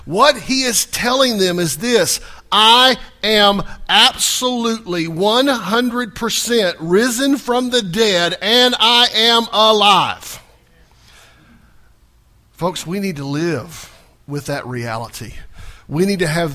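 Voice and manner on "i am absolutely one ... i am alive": slow proclaiming preacher. Acted. Preacher proclaims risen Jesus.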